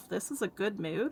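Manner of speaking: quiet muttering under the breath. Voicing a character who steps away and mutters to herself: muttering to herself. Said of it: "kinda mutters to herself".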